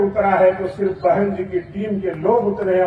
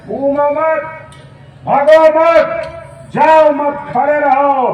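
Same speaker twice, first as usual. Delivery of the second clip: rousing rally slogan; 4 semitones higher, 4 dB louder, slower than usual. Real, not acted. Rally exhortation, slogan chant.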